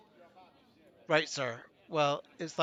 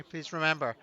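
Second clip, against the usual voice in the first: ordinary talk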